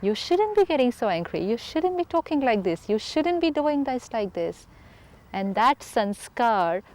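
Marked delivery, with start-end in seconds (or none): 0.1-4.7 nagging scold. Retold or imitated. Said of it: "everyone sending me this energy".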